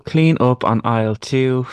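drawn-out PA announcement; over a PA system. Pretend. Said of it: "was actually quite a good voice".

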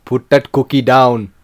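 low, slow Schwarzenegger voice; friend's decent action-hero impression; Arnold impression. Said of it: "Can you do one?".

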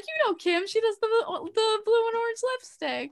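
a hint of the host's on-air cheer; imitating the host. Host explaining the fan to her co-host, a touch chirpy. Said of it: "professional voice going".

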